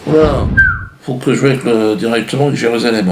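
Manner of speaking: mock flustered newsroom voice; mock AFP staff. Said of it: "ils ont dit". (voix de journaliste affolé, à peine jouée)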